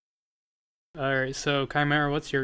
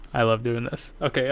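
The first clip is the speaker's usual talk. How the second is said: normal talking voice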